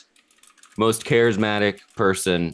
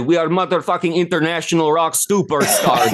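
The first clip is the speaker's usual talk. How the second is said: frontman's boast; 6 semitones higher, 3 dB louder than usual. Acted. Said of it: "Well, as the guy said".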